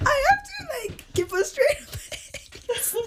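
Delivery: high, slow words through laughter; squeaky laughing aside. Real, not acted. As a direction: try to talk while cracking up. Laughing at mom's scolding.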